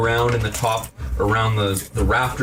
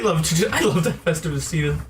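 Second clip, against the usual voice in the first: grasshopper shopkeeper; 4 semitones higher than usual. Acted.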